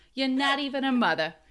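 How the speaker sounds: put-on loud New York accent. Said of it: "in a New York accent".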